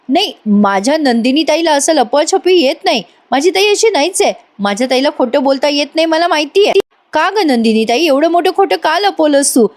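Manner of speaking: angry sister confronting her elder sister. Acted. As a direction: demand answers, the pitch climbing with anger. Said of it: "Kavya आता चिडून म्हणते".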